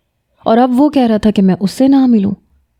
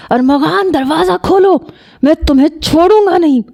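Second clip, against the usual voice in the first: high, furious threat, rushing at the end; enraged shout; 8 semitones higher than usual. Acted. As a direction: pound the door and yell at him. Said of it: "Shariq بپھر کے بولا". (غصے سے چیختی ہوئی دھمکی)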